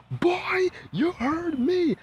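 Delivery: slow, high mock whisper; a hammed-up whispered threat; imitating grandma. Grandma hissing at the boy.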